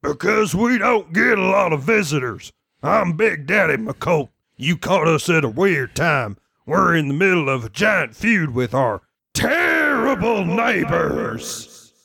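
big booming voice across valley; booming arrogant alien overlord. Acted. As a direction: boom it out like a giant. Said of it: "big, booming voice".

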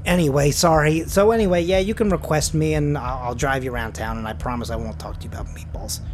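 lightly voiced driver wrapping up; apologetic driver Terry.

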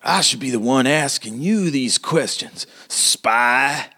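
high, suspicious character voice; accusing mayor. Acted. Mayor to the woman questioning him, high and accusing.

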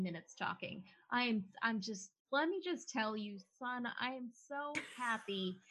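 beaming, gushing father; a dad proudly praising his son's effort. Acted. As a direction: gush with pride over the son. Proud dad gushes to son.

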